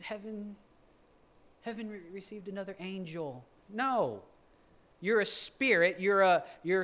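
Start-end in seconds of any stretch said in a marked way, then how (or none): 0.0-3.4 mocking quote. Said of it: "So why would I demote myself to".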